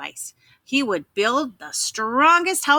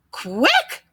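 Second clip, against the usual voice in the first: crying out; 3 semitones higher than usual. Acted. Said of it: "cried the third little pig".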